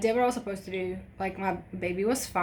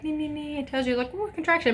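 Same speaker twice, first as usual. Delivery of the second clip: imitating the monitor; 8 semitones higher than usual. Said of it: "a little chart that's like".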